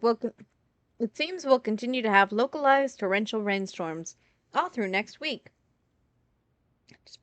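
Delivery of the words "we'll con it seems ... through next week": reading the forecast aloud like TV; weather report read. Acted. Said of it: "now that I have to read again".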